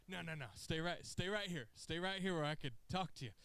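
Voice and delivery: mock stern order. Roman holding Jay back, lightly stern. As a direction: hold him in place firmly. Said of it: "He's like".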